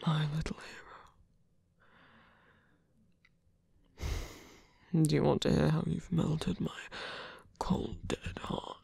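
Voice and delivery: soft breathy whisper close to the ear; tender whisper. Acted. Whispering tenderly to the hero he holds. Intimate whisper to wounded lover.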